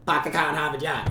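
quick Boston accent with dropped r, car said "cah". Shown as a demonstration. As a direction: rattle off "Pack the car, have a job" fast in a Boston accent. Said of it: "this is how you get the Boston accent".

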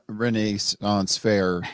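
"Renaissance Fair" drawn out slowly in a snooty, affected way; pretentious pronunciation. Shown as a demonstration. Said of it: "I'm only saying it the douchebag, pretentious".

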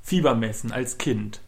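choppy robotic connection voice. Real, not acted. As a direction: sounds like a glitching robot. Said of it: "Du redest grad wie ein Roboter".

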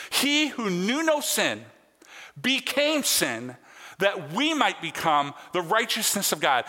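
measured pulpit emphasis on key words; emphatic preaching. Real, not acted. Preacher proclaiming the Easter truth, emphatically. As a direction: drive the scripture truth home.

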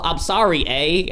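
tentative, light Canadian accent. Shown as a demonstration. Player attempting accents for friends, light Canadian accent. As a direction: try a bit of Canadian. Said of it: "How do Canadians sound again?".

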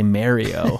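"Mario" with first syllable like "mare"; "Mario" starting like "Mary"; mispronounced Mario. Retold or imitated. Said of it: "Why the hell did that guy say".

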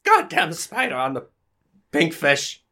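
high, halting frightened character voice; comic spider terror, haltingly; panicked eccentric. Acted. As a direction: gasp it out in high-pitched bursts.

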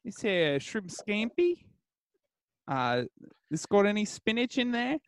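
halting, badly faked Australian accent; attempted Australian accent. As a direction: customer feeling out a shaky Australian accent, pitch rising on the dish. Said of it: "I don't know why he's Australian".

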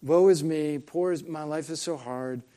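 lightly imitated self-pitying wail; mock a boy's endless complaining; mock whining. Preacher mimicking Shasta's going on and on, mock whining. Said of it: "Shasta goes on and on. He's like".

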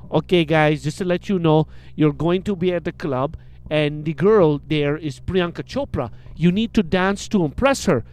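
put-on lightly French-accented instructions; imitated French director briefing the guys; a hint of a French accent. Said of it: "and he's French".

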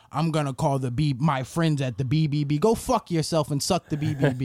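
lightly voiced offended customer; mock offended customer. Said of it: "may be like".

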